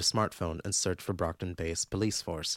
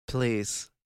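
pleading; 3 semitones higher than usual. Acted. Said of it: "pull off a pleading tone".

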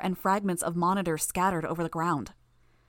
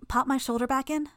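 wincing in pain; 7 semitones higher than usual. A narrator's reading. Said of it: "Tattletale winced".

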